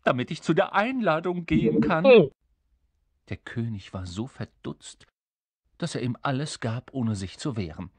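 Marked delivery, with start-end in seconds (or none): 0.0-2.3 high, loud imp voice; demanding little creature. Acted. Little creature asking the king for his stick, demanding. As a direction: pipe up as a pushy little creature.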